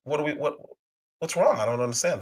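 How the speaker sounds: feigning confused innocence, hushed; hammed-up baffled denial; mock innocence. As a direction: play dumb, all wide-eyed. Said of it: "we're sitting here acting like".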